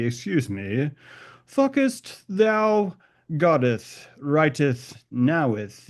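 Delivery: mock archaic scold. Mock archaic prim speech.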